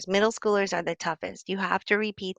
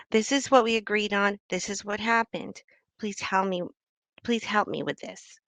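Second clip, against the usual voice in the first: calm request. Shown as a demonstration. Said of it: "a nice version of getting angry".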